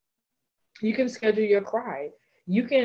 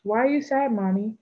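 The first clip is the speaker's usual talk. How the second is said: put-on higher, childlike question; child's question; 4 semitones higher, 3 dB louder than usual. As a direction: ask like a worried child. Child voiced asking mother.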